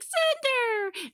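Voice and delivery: high, eager call of the name. Retold or imitated. Emerald running up to Cinder, calling her name high.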